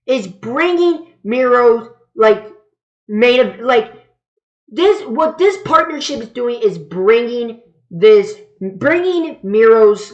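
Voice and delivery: halting, restarting the sentence; losing the words mid-sentence; stumbling over words. Real, not acted. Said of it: "But I can't even speak today".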